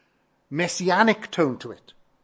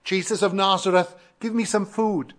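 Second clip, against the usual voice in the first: higher-pitched imagined beggar's appeal; mock crying out; 4 semitones higher than usual. Preacher imagines beggar asking Jesus for food, crying out. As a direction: lightly imitate a beggar calling for a handout. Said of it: "He doesn't cry out".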